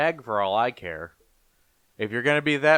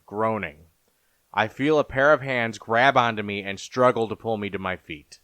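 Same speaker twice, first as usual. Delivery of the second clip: lower, measured storyteller voice; story narration; 3 semitones lower than usual. A narrator's reading. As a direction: narrate a fantasy horror tale. Narrates fantasy horror story.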